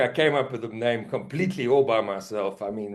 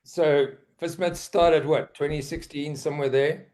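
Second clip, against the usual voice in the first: questioning, not quite certain; unsure; 3 semitones higher than usual. Real, not acted. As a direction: guess at the year as if unsure. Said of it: "You sound very unsure, though".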